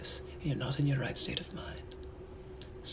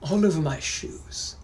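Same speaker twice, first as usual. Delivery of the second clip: British gentleman. Acted. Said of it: "I'm also a British gentleman from the eighteen hundreds".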